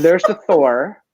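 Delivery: lightly voiced old man; a hint of an old man announcing. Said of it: "do you like how I sound like an old man saying it".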